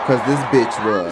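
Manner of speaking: angry aside at the woman in the clip; heated retort. Real, not acted. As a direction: snap back at the clip.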